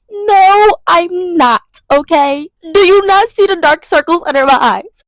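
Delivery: loud, fed-up snap back at mom; exasperated at mom, loud; exasperated comeback. Retold or imitated. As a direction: tell mom off, sick of it. Retelling a fight with mom.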